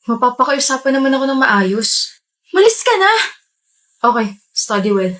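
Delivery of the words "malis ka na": high sharp angry shout; angry order. Acted. Student yelling at boyfriend to get out, furious. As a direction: throw him out with a yell. She drives him away.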